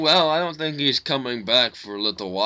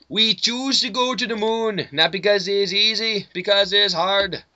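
lightly voiced JFK; a hint of Kennedy's speech cadence; JFK impression; 5 semitones higher than usual. Student mimicking his teacher's JFK, lightly voiced. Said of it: "loves doing voice impressions".

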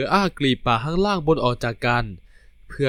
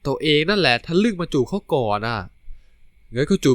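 put-on cute pouty boy; 5 semitones higher, 3 dB louder than usual. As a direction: tease him back with a sulky pout. The speaker pouts at his boyfriend.

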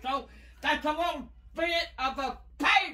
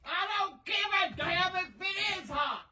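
angry scolding; 4 semitones higher than usual. Real, not acted. Grandma dismisses his complaint.

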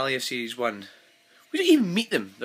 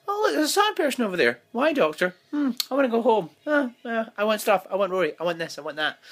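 high, loud spoiled whine; mocking petulant whining; whiny Amy; 10 semitones higher, 5 dB louder than usual. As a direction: whinge like a bored brat. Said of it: "Amy was just like".

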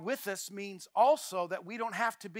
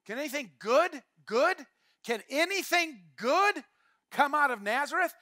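rising, mocking disbelief; skeptical sneer; 3 semitones higher than usual. Nathanael doubting Philip's news, sarcastic scoff. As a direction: scoff at the hometown. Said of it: "Nathanael's response was".

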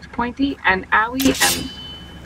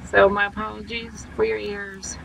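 ordinary talk, nothing marked

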